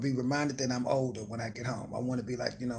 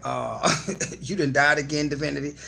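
mock teasing; 6 dB louder than usual. Host teasing a gamer friend who keeps dying. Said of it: "I'd be like".

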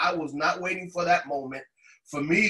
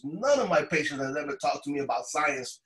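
mild, incredulous enthusiasm; retold excitement. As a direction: imitate an excited doctor, pitch climbing at the end. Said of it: "she was so, so excited".

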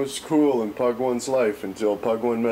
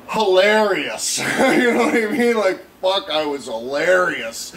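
laughing excitedly; 7 semitones higher, 6 dB louder than usual. Real, not acted. Laughing at his own story.

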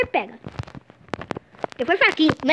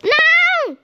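dismayed cry; 7 semitones higher, 3 dB louder than usual. Real, not acted. Conceding a goal in game.

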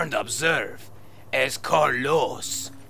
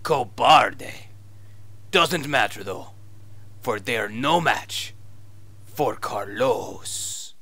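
fake Spanish accent; 2 semitones lower than usual. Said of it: "your fake Spanish accent".

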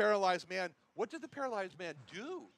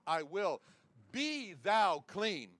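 commanding voice; slower than usual. Pretend. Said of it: "same commanding voice".

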